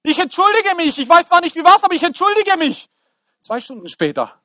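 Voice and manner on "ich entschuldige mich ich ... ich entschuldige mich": Joseph apologizing. Acted. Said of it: "Und denkst du".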